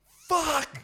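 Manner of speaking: mock sudden cry. Friend's cry heard from car.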